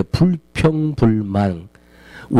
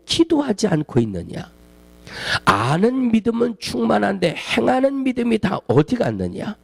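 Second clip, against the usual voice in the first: higher, stronger rebuke, stress on 왜; God pressing his people, voice raised; God's voice rising; 4 semitones higher than usual. Retold or imitated. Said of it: "하나님 주시는 첫 번째 음성은". (하나님이 백성을 향해 목소리를 높여 왜를 강하게 꾸짖듯)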